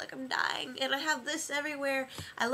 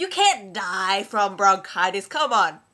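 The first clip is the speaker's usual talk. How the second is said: scolding; 4 semitones lower, 10 dB louder than usual. Acted. Scolds sick friend.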